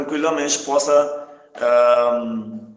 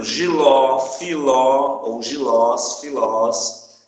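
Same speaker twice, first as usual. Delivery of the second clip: GILÓ, FILÓ, GILÓS, FILÓS slowly, long final ó; final stress; 5 dB louder, much slower than usual. Shown as a demonstration. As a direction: lean on the last syllable of giló and filó. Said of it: "acentua-se oxítonas terminadas em O". (giló, filó, gilós, filós devagar, alongando o ó final)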